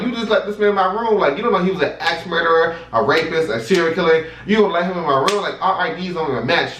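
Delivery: high, rapid indignant rant, retold; cussing her out. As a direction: re-enact berating the front desk. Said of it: "I'm cussing her out".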